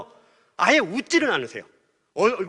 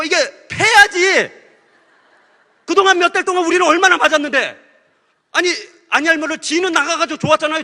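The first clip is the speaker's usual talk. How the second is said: loud, higher, aggrieved protest with a laugh; indignant outburst; 7 semitones higher, 8 dB louder than usual. Retold or imitated. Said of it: "막 그냥 화가 났어요". (억울해서 크게 높여 따지듯이)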